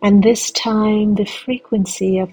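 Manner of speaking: slow, soothing meditation guide; sleep story narrator. Acted. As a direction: draw the listener into calm with long pauses.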